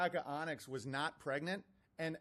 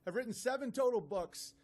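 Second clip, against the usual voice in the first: lightly higher mock-indignant read; mocking email reading; 3 semitones higher than usual. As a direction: read his boasts to ridicule them. Reads the critic's email mockingly.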